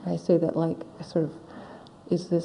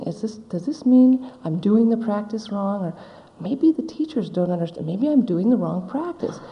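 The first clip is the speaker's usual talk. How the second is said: spiraling anxious thoughts; 2 semitones higher, 3 dB louder than usual. Retold or imitated. Meditator voicing her own panicked inner monologue, rising. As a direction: worry snowballing into alarm. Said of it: "and I'm thinking".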